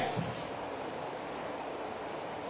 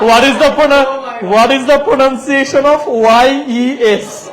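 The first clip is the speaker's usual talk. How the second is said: laughing through it, mocking the odd question gently; amused laughing repeat; much slower than usual. Real, not acted. Host repeats a student's silly question, laughing slowly. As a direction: drag the question out slowly while chuckling.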